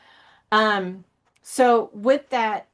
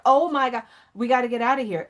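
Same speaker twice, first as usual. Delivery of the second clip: raised, higher voice as a mild imitated scream; mock scream; 4 semitones higher, faster than usual. Inner core begging to get out, a mild mock scream. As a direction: act out an inner self's urgent cry, without full volume. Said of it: "she's screaming".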